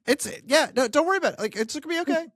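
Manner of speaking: high, light imitation of soothing someone; casual reassurance. Voices Jesus soothing the worried father.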